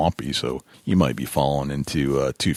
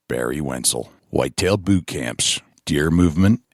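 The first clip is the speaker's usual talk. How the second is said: announcer read of title and sponsors; measured, emphatic sponsor billboard; podcast announcer; 2 semitones higher than usual. Acted. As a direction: punch out each billing like a show intro. Reads show title and sponsors.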